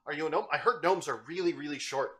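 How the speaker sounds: high, bubbly chatter of an overeager cat; excitable cat girl voice. Acted. Roxy the cat introducing herself to Garth, high and excitable. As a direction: gush like a hyperactive kitten meeting new friends.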